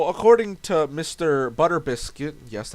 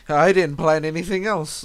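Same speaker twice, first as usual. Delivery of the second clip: laughing; 2 semitones higher, 5 dB louder than usual. Real, not acted. Laughing recap of session.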